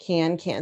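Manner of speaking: can, can beaten out syllable by syllable; syllables pounded out. Shown as a demonstration. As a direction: tap each syllable as you say it. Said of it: "two syllable lines".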